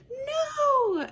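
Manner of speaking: sharp high shouted no; anguished shout. Retold or imitated. Lead lady cries out as her friend unravels the project, shouting. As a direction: yell to stop her in her tracks.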